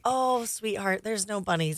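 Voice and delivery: put-on softly breaking it to a child; gentle mother. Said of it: "I'm like".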